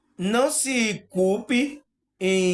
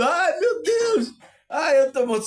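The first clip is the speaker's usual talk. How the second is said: a pretend cry of fear, much higher; mock panic; 9 semitones higher than usual. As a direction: play someone panicking out of their body. Imagined terrified astral traveller.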